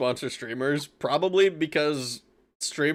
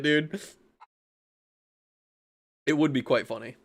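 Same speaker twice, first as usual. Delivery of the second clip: ordinary talk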